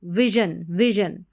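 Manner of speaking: विजन with short i and voiced zhun; short first vowel in विजन, dropped slightly. Shown as a demonstration. Teacher repeating the short vowel, विजन with short i. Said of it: "short sound है आई का".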